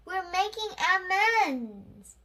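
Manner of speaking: high, loud, slow call. A narrator's reading. Young Clancy calling from the spaceship, loud slow call. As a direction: call it down slowly.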